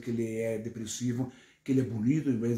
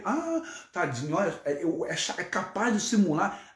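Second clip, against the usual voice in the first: leve imitação de vítima; 5 semitones higher than usual. Retold or imitated. Mulher finge estar passando mal.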